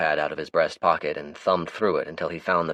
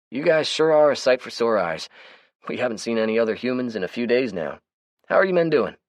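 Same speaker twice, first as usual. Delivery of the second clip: higher, brighter character voice; Melvin's voice; 8 semitones higher, 5 dB louder than usual. Acted. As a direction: play the chatty, easygoing Melvin. Melvin voices his lines.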